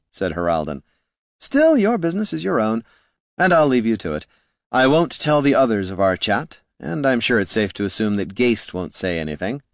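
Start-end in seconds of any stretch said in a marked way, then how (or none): 1.4-9.6 higher-pitched bard, airily taking his leave; a hint of a theatrical bard; lightly voiced bard.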